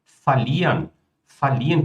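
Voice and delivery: verlieren said falieren, ver reduced to fa; fa prefix. Shown as a demonstration. Teacher showing students how ver becomes fa. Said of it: "como é que isso pode ser falieren".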